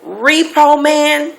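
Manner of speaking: high, laughing gasp of disbelief; shocked disbelief. Retold or imitated. Woman on the phone, stunned by the repo news, shrieking in disbelief. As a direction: squeal it out in stunned surprise. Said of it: "I'm like".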